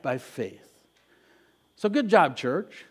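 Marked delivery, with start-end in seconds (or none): 0.0-0.7 leading congregational repetition. Shown as a demonstration. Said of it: "Someone say that with me".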